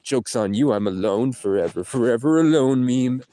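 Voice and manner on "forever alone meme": self-mocking catchphrase, slightly raised; mock announcement. Alone in the car, joking about himself, mild mock announcement.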